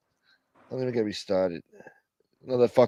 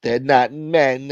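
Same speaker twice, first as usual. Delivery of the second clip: creepy slow voice; slower than usual. Pretend. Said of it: "They're talking about you".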